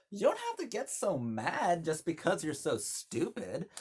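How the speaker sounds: sassy quick-witted jab; snappy screwball comeback; quoting Jean Arthur. Retold or imitated. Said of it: "Jean Arthur is like".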